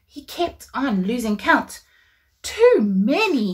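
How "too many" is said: slow, exasperated sigh of words; Abraham giving up. Acted. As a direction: drag it out, defeated. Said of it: "he said".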